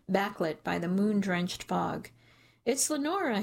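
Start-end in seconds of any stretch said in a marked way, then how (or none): 2.6-3.4 yelled. A narrator's reading. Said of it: "he yells".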